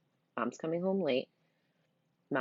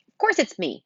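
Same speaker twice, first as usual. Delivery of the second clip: offended, louder; indignant; 7 semitones higher, 8 dB louder than usual. Acted. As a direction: bristle with indignation. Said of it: "he says indignantly".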